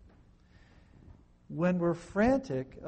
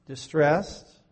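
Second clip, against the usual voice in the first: distressed; 9 dB louder than usual. Shown as a demonstration. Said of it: "how distressed?".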